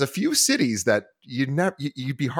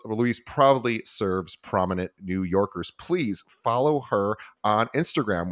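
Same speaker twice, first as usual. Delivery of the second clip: measured podcast bio read; introducing an honored guest from a script; host intro read. Acted. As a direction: read out the guest's credentials in even, polished phrases.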